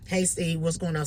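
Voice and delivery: lightly voiced caller without enthusiasm; subdued greeting. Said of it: "ain't calling him all hype".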